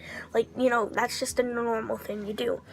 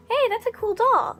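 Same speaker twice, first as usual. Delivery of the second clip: high, loud, cheery imitated praise; friendly compliment; 11 semitones higher, 5 dB louder than usual. Actor to girl holding her doll, friendly compliment.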